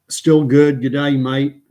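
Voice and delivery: big, loud, hearty hello; hearty greeting. Real, not acted. Host greeting a viewer mid-broadcast, hearty.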